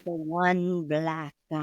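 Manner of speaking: lightly voiced low ghost; a hint of spooky moaning.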